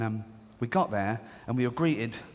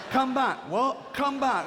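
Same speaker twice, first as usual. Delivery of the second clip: shouting him back; 12 semitones higher, slower than usual. Retold or imitated. Customer shouting after the builder to come back, high mock plea. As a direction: call the builder back like a fan begging for more.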